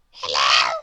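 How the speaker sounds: very low, loud tiny man voice; Mister Small greets in a deep voice; little voice. Acted. Mister Small at the door, very low loud greeting. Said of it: "he said again".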